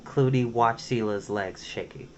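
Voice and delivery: ordinary delivery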